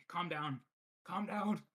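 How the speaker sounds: from firm to a loud high yell; building to a shout. Acted. Shaking the choking elf, calm down building into a shout. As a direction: shake him harder with each calm down. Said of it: "shaking him harder and harder".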